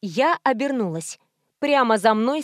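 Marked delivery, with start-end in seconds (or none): none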